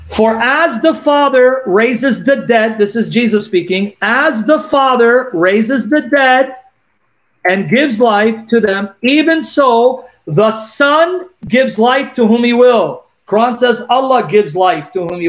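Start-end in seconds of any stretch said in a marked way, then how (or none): 0.1-2.8 slow, emphatic scripture reading. Real, not acted. Host reads the Gospel to a caller, slow and emphatic. 4.0-13.0 slow, emphatic scripture reading. Real, not acted. Host reads the Gospel to a caller, slow and emphatic.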